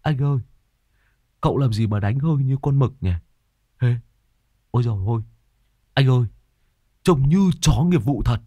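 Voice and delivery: mock the master sniffing like a dog; cheeky gossip. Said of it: "lại thì thầm". (giọng cao chế giễu)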